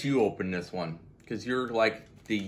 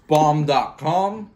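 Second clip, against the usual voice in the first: drawn-out sassy; 4 semitones higher, 8 dB louder, much slower than usual. Acted. Slangy emphatic phrase.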